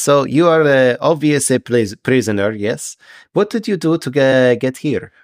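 halting fish-man questioning a prisoner; a hint of a formal sea creature, searching for words; curious, stilted Triton; lightly voiced Triton. Game master plays the Triton.

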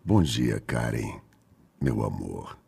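low, soft seductive good morning; sultry narrator. Pretend. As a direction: purr it like a late-night radio voice. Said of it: "Você tem uma voz sedutora".

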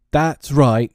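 indignant father's outburst; shouting. A narrator's reading. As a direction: shout it in a huff. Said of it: "he shouted".

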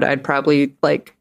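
usual speaking voice

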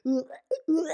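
mock gagging noise, twice; imitated dog retching. Woman retells hearing the dog about to vomit, imitated retching. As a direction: imitate a dog starting to heave.

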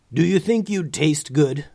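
a mild dragon challenge; growling dragon. A narrator's reading. Gray dragon questioning Lucas, lightly growled. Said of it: "growled the gray dragon".

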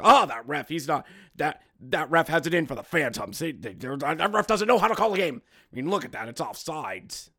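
lightly voiced grumbling fan; a touch of a fan griping about the ref; mildly mocked griping fan; mock know-it-all fan.

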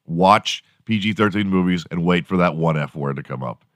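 ordinary talk, nothing marked

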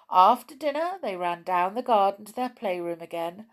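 put-on expressive read-aloud for children; story narration. A narrator's reading. Reader telling of the wait for Whiskers, storytelling. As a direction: carry the tale along, stressing key words.

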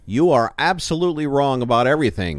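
lightly acted indignant contradiction; imitating Fauci. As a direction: scold as a mock version of him. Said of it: "He just says".

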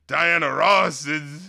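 slow, drowsy mumbled name list; sleepy, slowed-down shout-outs; falling asleep. Retold or imitated. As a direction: drag the names out like you're nodding off. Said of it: "he just sounds like this guy is just slowly falling asleep".

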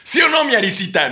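high, loud vlogger catchphrase; Luisito Comunica impression. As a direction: ask the girlfriend on camera. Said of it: "Luisito Comunica del peligro".

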